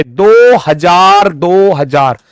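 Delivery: दो हजार drawn out very slowly, emphatically; stress on दो हजार. Shown as a demonstration. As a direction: stretch दो in दो हजार long for the students. Teacher stresses century to read. (दो हजार को खींचकर, ज़ोर देकर)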